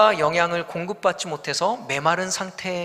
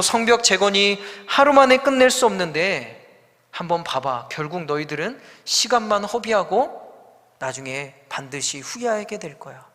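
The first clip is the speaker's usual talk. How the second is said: confident scorn. Retold or imitated. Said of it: "확신에 차서 이야기를 합니다".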